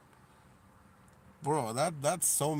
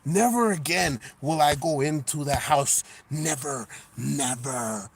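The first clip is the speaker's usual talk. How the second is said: voicing the cat; 3 semitones higher, 7 dB louder than usual. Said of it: "He's like".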